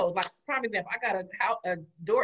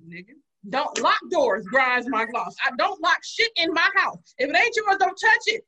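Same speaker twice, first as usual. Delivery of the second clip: retold scolding; 3 semitones higher, 3 dB louder than usual. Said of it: "I'm like".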